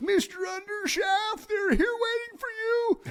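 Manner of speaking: odd put-on theatre voice, very high. Retelling a two-line stage role from opening night: imitating own weird stage voice. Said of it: "I said this in this weird voice".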